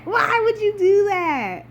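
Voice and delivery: high, slow near-crying wail of why; half-sobbing plea at the writers; despairing wail. Real, not acted. Exasperated fan mourning killed character.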